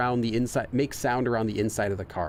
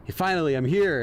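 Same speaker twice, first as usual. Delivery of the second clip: acting a little worked up; mildly worked up; 4 semitones higher, 4 dB louder than usual. Acting out the driver finally arriving, mildly worked up. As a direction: play a touch of stressed excitement at finally arriving. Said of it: "worked up".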